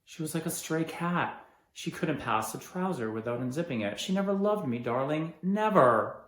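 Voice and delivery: loud, bitter accusation; bitter anger. Acted. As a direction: spit out her betrayal. Bitter outburst about wife.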